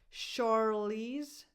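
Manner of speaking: "Charlize" starting with sh, not ch; SH first sound. Shown as a demonstration. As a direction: say "Charlize" as shar-LEEZ, rising. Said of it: "the first sound is a sh".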